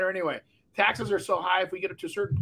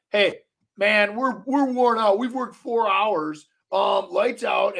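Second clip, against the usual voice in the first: worn-out workers; 4 dB louder, much slower than usual. Retold or imitated. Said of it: "They're like".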